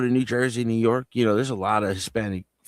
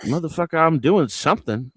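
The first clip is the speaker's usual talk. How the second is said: exasperated retort; 7 semitones higher than usual. Retold or imitated. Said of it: "It's just like".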